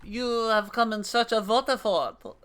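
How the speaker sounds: lightly voiced old Elezen whaler; NPC voice. Streamer voicing an old whaler NPC, lightly grave.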